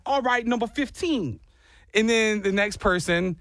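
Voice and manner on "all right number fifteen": higher mock Jersey voice; bad Jersey accent. Jersey stranger answers in elevator, bad Jersey accent. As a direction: badly imitate a Jersey man. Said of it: "So he's like".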